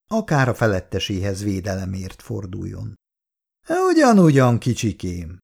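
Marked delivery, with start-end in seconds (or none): 3.9-5.4 high, patronizing tut-tut; more and more superior. Acted. Kátai belittles the outraged Irén, patronizing. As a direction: talk down to her like a child. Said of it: "lett egyre fölényesebb Kátai".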